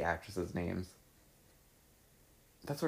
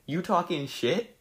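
slow breathy whisper, pitched up; 8 semitones higher than usual. Shown as a demonstration. Repeating her old caption line under her breath. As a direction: hiss it out in a whisper, slowly.

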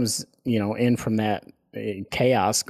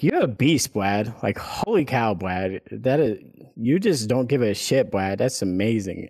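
lightly mocking the cashier's gushing; a mild mock of her swooning praise. Mocking the cashier to himself, driving home in a mild swoony voice. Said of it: "I'm doing that voice and making fun of her".

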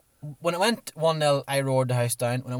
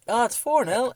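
stunned disbelief; 11 semitones higher, 6 dB louder than usual. Retold or imitated. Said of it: "As in, like".

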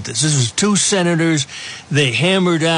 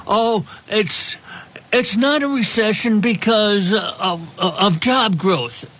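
higher, dismissive mimicry; mocking voice; 5 semitones higher than usual. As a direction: sneer it like a spin doctor. Mocking the recession denial.

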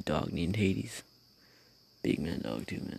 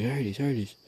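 slightly raised mock call, no real scream; retold dog call; 4 semitones higher than usual. Owner calling the dog off, mild retold yell. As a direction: call the dog, a little higher. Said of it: "like, screaming".

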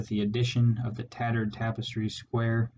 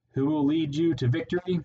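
rallying call; 5 semitones higher, faster than usual. A narrator's reading. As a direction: rouse the army with the question. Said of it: "As Clooney exhorted them".

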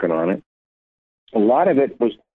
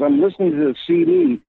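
thrilled, much higher voice, imitating his friend; excited Keith. Keith phoning Robert, thrilled about hearing the old CD: excited high voice. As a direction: replay his giddy phone call, pitched way up. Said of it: "he called me so excited".

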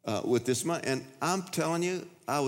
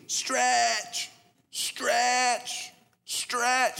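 high, stretched-out preacher cry; mock preacher scream; 11 semitones higher, much slower than usual. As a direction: shout it like a TV preacher. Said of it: "I can tell he's screaming".

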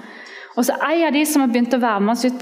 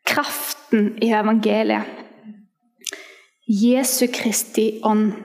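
usual speaking voice

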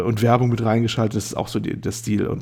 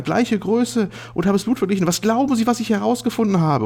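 high, excited mad scientist; eccentric doctor voice; 7 semitones higher than usual. Acted. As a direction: play a giddy, high-pitched doctor. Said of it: "Wo der Doktor, immer ein bisschen high".

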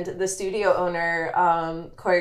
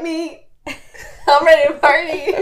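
loud, laughing party cheer; rowdy party animal; 7 semitones higher, 8 dB louder than usual. Pretend. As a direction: shout it with a laugh. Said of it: "And I'm like".

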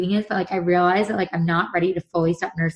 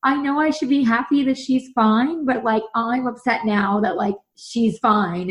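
retold upset, pitched higher; emotional; 4 semitones higher, slower than usual. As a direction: mildly imitate being upset, stretching the end. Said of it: "I'm, like, all emotional, I'm, like, crying".

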